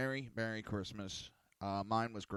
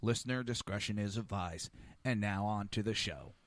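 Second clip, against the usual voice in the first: disclaimer read; 4 dB louder than usual. Shown as a demonstration. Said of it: "This show contains language".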